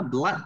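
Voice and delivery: "blood" said with a short, open uh; short A vowel. Shown as a demonstration. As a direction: say "blood" like "blát", rhyming with mud. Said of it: "được phát âm như dấu mũ âm Á". (đọc "blood" với âm Á ngắn)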